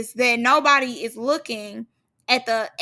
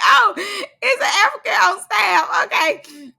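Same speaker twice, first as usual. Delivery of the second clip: laughing shout; 8 semitones higher, 5 dB louder, slower than usual. Retold or imitated. Laughing at the surprise.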